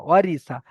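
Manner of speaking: ওয়ারি সা short and clipped with no drawn vowel; no lengthening. Shown as a demonstration. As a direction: say ওয়ারি সা quickly without stretching. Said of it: "এই তিনটে একদম টান হবে না". (টান ছাড়া ছোট করে বলা)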